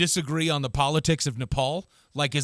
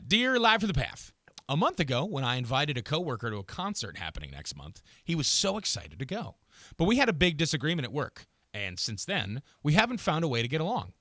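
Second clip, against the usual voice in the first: letter read-aloud. A narrator's reading. Reads listener's letter aloud.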